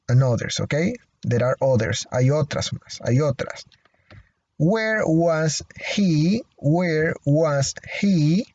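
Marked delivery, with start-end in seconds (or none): 4.6-6.4 slow model question. Shown as a demonstration. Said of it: "teacher models question". 6.6-8.5 slow model question. Shown as a demonstration. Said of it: "teacher models question".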